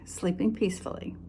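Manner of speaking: soft unvoiced whisper. A narrator's reading. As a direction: hush it like a sleeping child. Piglet sleeping, whispered narration.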